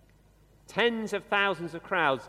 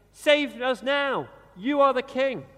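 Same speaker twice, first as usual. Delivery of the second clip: higher, louder, slow acclamation; crowd's cry; 5 semitones higher, 4 dB louder, slower than usual. Retold or imitated. Preacher echoing the Jerusalem crowd's plea, slow raised cry. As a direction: proclaim it like a crowd hailing their king. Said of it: "they are shouting".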